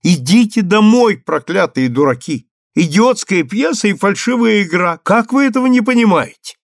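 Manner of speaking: loud, high, angry outburst at the crowd; shout at the audience. Acted. Actress imagines shouting at the audience, loud angry shout. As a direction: yell it over the footlights. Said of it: "крикнуть публике".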